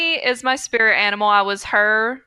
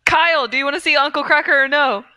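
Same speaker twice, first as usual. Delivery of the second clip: laughing mock question; 3 semitones higher, faster than usual. Mocking white people names bit.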